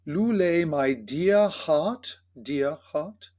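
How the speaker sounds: slow, careful British-style diction; British sounding. Shown as a demonstration. Choir director models the lyrics' pronunciation, very British sounding. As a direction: say it slowly and deliberately in a British accent. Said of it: "So very British sounding".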